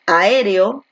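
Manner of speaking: "aéreo" with the stress on the first E; stress on second syllable. Shown as a demonstration. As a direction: lean on the É of "aéreo". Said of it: "Donde la fuerza de voz recae aquí en la E".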